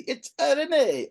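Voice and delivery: slow, high cartoon plumber voice; Mario voice. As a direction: stretch it out like Mario. Host punning on Mario catchphrase.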